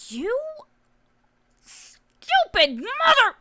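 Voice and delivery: high, loud, drawn-out curse; slow, seething insult that erupts loud; furious outburst. Acted. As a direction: build from a held "you" to a yell. Girl cursing at boy.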